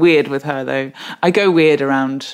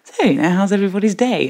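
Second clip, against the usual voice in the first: barely voiced Iron Lady impression; Margaret Thatcher voice; 3 semitones higher than usual. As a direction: retell it as Meryl still half in her Thatcher role. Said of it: "in her Margaret Thatcher voice".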